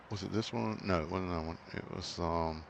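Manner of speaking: talking through hiccups; hiccuping between words. Real, not acted. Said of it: "now I got the hiccups".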